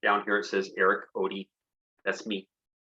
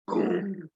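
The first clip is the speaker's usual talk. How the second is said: thunder boom; 8 semitones higher than usual. Shown as a demonstration. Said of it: "far distant storm".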